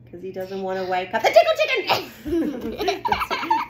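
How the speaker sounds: laughing. Real, not acted.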